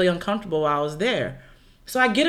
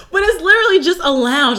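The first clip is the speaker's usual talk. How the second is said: talking through a real laugh, pitched up; giggly, breaking up mid-line; 10 semitones higher, 5 dB louder than usual. Real, not acted. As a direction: still giggling as she explains. Laughing after Dirty Dick joke.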